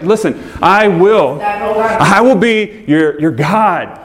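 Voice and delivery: begging. Acted. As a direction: plead with them to listen, stretching the words. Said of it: "like, begging".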